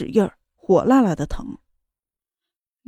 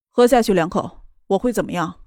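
cold and detached, dropping low; icy, indifferent question; coldly; 3 semitones lower than usual. Acted. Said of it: "冷冷的道". (冷冷地说)

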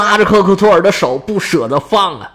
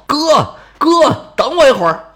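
higher, louder call after his brother; 10 semitones higher, 3 dB louder than usual. A narrator's reading. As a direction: call out to catch up. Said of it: "就听后头有人叫他". (在后面高声喊哥哥)

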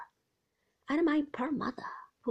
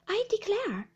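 high-pitched gentle exclamation; light, high, tender wonder; 10 semitones higher, 4 dB louder than usual. A narrator's reading. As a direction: marvel gently in a raised pitch. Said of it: "said my mother gently".

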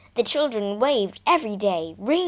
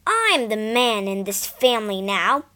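put-on louder, indignant boy; storming; 5 dB louder than usual. Son storming at his mother about the cold, angry. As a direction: declare it hotly. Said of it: "he stormed".

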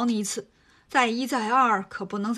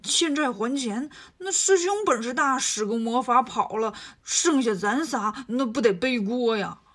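Bajie's worried voice. Acted.

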